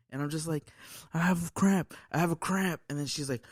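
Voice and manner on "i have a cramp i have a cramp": higher-pitched insistent complaint; mock pained plea. Explaining the cramp to woken partner, mock distress. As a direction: plead through pretend pain. Retells pleading in pain.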